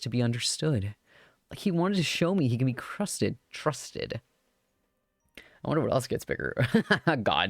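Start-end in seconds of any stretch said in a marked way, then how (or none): 3.5-4.2 whispered echo. Acted. Repeating a word to herself.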